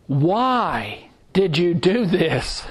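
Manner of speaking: slow, half-laughing parent's question; mock parent scolding. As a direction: drag it out with a laugh, teasing the old habit. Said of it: "I quit asking my children".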